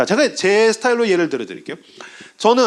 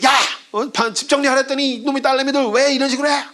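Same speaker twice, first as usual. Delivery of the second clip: acted fatherly telling-off, rising high; mock-scold the daughters with a sudden yell; hammed-up angry dad; 7 semitones higher than usual. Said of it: "막, 막, 막 혼내세요".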